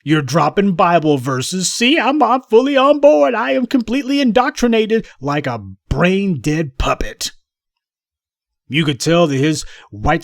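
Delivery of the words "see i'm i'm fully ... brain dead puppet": much higher, simpering mock eagerness; mock puppet voice. Commentator mimicking player as brainwashed puppet, high mock voice.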